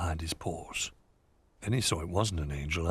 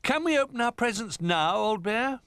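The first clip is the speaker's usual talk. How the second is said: eager toy; 5 dB louder than usual. A narrator's reading.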